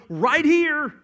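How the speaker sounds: God answering worried Israel, firm and emphatic; voicing God. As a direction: speak as God answering his people, firm and sure. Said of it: "And God's going".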